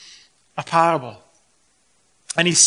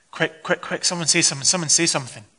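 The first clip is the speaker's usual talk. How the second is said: hushed, urgent muttering in mock panic; mild mock panic; 3 dB quieter, faster than usual. Guest desperate to end an awkward silence, mildly panicked. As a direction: plead under your breath for rescue. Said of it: "in a little bit of a panic".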